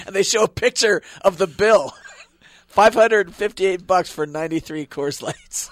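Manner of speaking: giggling through the words. Real, not acted. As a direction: laugh while reading it out. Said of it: "sorry for the giggling".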